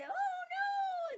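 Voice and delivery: very high playful wail of dread; mock-frightened cry. Playing along with kids in the schoolyard, mock fright. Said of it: "And I'd say".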